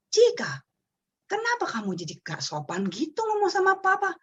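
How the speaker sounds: a stern but measured telling-off. Retold or imitated. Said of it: "Saya marah, raise intonation saya".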